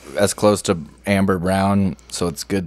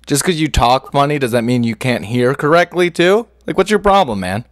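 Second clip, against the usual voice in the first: raised pitch, climbing into exasperation; irritated scolding; 5 semitones higher than usual. Real, not acted. Co-host scolds caller for mishearing.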